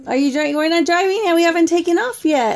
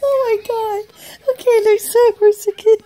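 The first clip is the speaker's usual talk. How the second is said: laughing; 3 semitones higher than usual. Real, not acted. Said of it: "I can't help but laugh".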